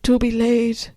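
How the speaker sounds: high, slow, grand declamation; hammy audition speech; theatrical monologue. Acted. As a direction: deliver it like a stage audition. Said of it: "This is my audition monologue".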